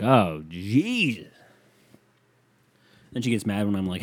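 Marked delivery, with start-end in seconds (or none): 0.0-1.3 long, slow drawn-out sigh of annoyance; exasperated. Retold or imitated. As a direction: drag it out, fed up.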